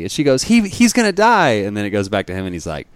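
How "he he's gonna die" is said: high, loud frantic plea; woman begging the doctor, shrill panic; high panicked woman. Retold or imitated. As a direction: squeal it in alarm. Meme woman desperate.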